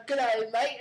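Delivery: quick Crocodile Hunter Aussie line; mock Australian greeting; hint of an Australian accent. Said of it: "Australian accent".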